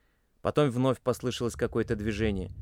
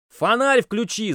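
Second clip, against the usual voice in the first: much higher, much louder slow bellow; shout at full force; 11 semitones higher, 8 dB louder, slower than usual. A narrator's reading. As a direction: roar the order at the top of your lungs. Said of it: "заорал он, что было мочи".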